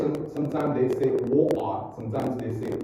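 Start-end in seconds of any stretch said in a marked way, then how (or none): 1.3-1.9 British "water" with the T swallowed; British pronunciation. Shown as a demonstration. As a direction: drop the T in "water", British style. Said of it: "In British".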